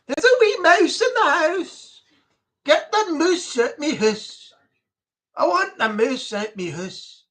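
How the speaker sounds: playful Scottish take; Scottish accent. Shown as a demonstration. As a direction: say it broad Scots. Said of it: "when you say things in Scottish".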